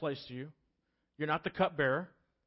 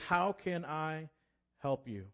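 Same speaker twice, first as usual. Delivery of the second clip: slow gentle offer; slower than usual. Retold or imitated. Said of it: "here he says".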